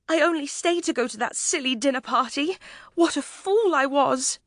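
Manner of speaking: a frightened lady scolding herself; self-reproaching lady. A narrator's reading. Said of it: "she cried".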